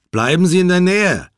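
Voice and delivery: high, loud command; called-out order. Acted. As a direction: call out a firm instruction. Urgent order on arriving ashore.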